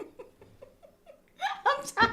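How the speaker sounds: weary, fed-up sigh of a greeting; exasperated. Real, not acted. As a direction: say it like your patience is gone. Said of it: "sounded so exasperated".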